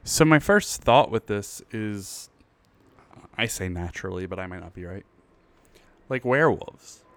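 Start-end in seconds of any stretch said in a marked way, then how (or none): 6.1-7.0 hiccup jolts the word; talking through hiccups. Real, not acted. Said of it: "I have the hiccups".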